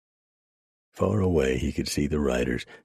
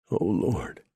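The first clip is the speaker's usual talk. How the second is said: shouting; 5 semitones higher than usual. A narrator's reading. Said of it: "John shouted".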